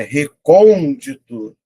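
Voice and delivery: word drawn out slowly, syllable by syllable; slow dictation. Shown as a demonstration. Teacher slowly reading out a quiz word. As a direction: spell it out slowly for the class. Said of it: "vou colocar aqui".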